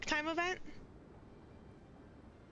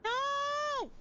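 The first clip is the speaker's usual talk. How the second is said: shouted no; 11 semitones higher than usual. Real, not acted. Reacting to villain's threat.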